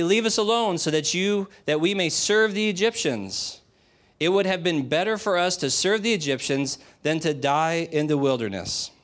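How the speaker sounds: the people whining to Moses they'd rather serve Egypt; whiny complaint. Retold or imitated. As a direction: grumble at Moses like a spoiled crowd.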